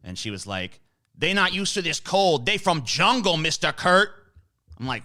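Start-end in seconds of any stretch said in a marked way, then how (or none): 1.2-4.2 higher, mock Asian accent for the old lady; imitated Asian accent. Retelling a racist Florida lady to a friend, mock Asian accent. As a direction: retell the lady's words in a put-on Asian accent, pitched up. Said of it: "not as funny if I don't say it in her accent".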